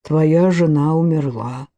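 slow, flat and colorless; toneless voice. Acted. Лэри tells Гарри his wife died, toneless and slow. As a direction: say it drained of any feeling. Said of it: "бесцветным голосом ответил Лэри".

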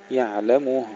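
"يعلمه" with a full u on م and audible final ه; clear damma and ha. Shown as a demonstration. Teacher drills the verse word, clearly realised damma and ha. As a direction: round the م, then sound the ه in "يعلمه". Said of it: "تحقيق ضمة الميم ثم تحقيق الهاء".

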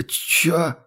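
высокое растерянное «чё?», с похмелья; бросить вопрос ошарашенно, высоко. A narrator's reading. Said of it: "проронил Ральф, растерянно мигнув". (растерянно, высоким голосом)

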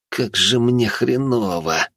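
slow hungover moan. Acted. Hungover Oleg moans crawling off the sofa. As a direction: drag it out miserably. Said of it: "простонал Олег".

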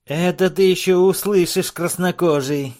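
high, loud mocking dwarf; cackling dwarf. A narrator's reading. Dwarf taunting chief, high loud mockery. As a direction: taunt with a shrill laugh.

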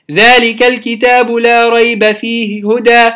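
فيهُ هدى with the ha vowel barely touched; snatch the vowel on فيه; quick stolen vowel. Shown as a demonstration. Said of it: "الاختلاس". (تلاوة بالاختلاس)

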